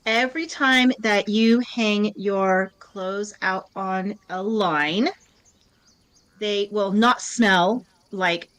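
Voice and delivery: slow, spaced-out mock blessing; solemn mock pronouncement. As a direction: bestow it slowly, phrase by phrase, like a decree. Grants a membership blessing on request.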